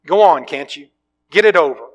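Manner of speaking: loud, desperate bellow. Acted. Ghost yelling at the angel to just do it, loud. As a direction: roar it out in surrender. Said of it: "bellowed the ghost".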